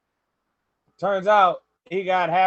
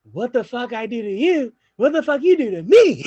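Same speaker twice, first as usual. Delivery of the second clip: rising, louder and higher, breaking into laughter; mock outraged shout; 5 semitones higher, 6 dB louder than usual. The speaker answering the phone to Caleb, mock outraged shout. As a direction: throw it back at him, half laughing.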